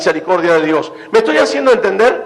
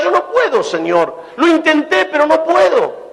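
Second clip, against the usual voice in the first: pleading prayer; 7 semitones higher than usual. Retold or imitated. Voicing a surrendering prayer.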